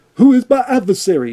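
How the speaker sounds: high, bad nineteen-thirties screen acting delivery. Mocking an actress's lines, imitating bad 1930s-style acting. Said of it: "she says that line too".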